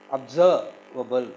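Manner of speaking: slow "observable", pausing after SERV; "observable" drawn out in pieces; syllable by syllable. Shown as a demonstration. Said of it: "how we have to syllabify".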